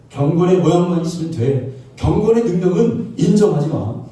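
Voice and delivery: mildly acted devil, firmly insisting; devil's insistent command. Devil telling believers to deny godliness's power, insistent command. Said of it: "마귀가 그럽니다".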